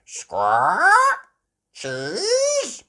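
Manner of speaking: high, loud parrot screech; squawk, then screech it back; parrot mimicry. Polly copying Grampy Rabbit, squawky parrot voice. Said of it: "Polly Parrot copied".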